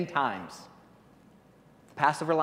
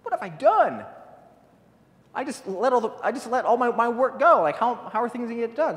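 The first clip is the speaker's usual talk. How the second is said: high, loud, frantic king in a panic; a ruler realizing he lost his workforce, alarmed; panicked Pharaoh; 8 semitones higher, 5 dB louder than usual. Acted. Preacher voicing Pharaoh regretting freeing his slaves, high panicked cry. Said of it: "Pharaoh's like".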